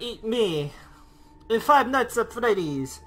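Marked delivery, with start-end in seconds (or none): 1.5-3.0 put-on slow half-hearted Russian accent; a lazy Russian-comedian bit, barely trying; horrible Russian accent. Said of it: "That was a horrible Russian accent".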